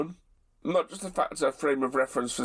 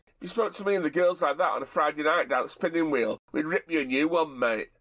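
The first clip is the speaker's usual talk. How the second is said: thick and common. Retold or imitated. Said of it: "thick and common".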